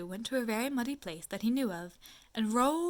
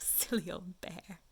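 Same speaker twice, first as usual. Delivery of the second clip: laughing to yourself; 3 semitones lower, 7 dB quieter, slower than usual. Acted. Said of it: "you laughed to yourself".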